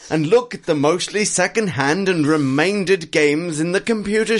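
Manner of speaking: chipper upbeat. Acted. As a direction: read it like it's the best news ever. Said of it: "A really chipper, upbeat grudge".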